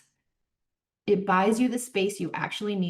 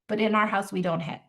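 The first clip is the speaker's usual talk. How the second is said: calm, slow validation. Shown as a demonstration. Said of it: "make the distinction out loud".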